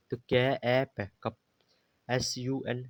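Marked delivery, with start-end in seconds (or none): 0.2-1.4 "कप" sounded out as कै, ए, पे, then blended; sounding out. Shown as a demonstration. Teacher showing learners that u is read ए, sounding out "कप". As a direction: break "कप" into separate letter sounds, then say it whole. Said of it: "ए पढ़ा गया".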